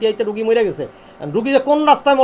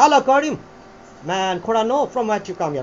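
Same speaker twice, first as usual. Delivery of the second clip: third British accent style; much slower than usual. Shown as a demonstration. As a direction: model another British variety on "from where you come here". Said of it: "আর একটা হচ্ছে".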